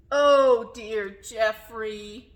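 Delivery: loud "oh", then slow sing-song dismay; storybook refrain. A narrator's reading. Teacher reading about clumsy giraffe, slow drawn-out refrain. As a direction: draw out the refrain slowly for children. Picture book refrain, read dramatically.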